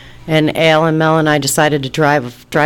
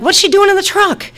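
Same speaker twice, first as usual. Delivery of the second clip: indignant retold demand. Outraged at child in truck.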